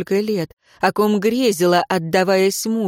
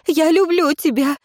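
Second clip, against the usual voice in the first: higher, sudden woman's cry; higher cry of love through tears; 9 semitones higher than usual. Acted. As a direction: blurt out the confession as a cry. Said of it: "вскрикнула Лейра".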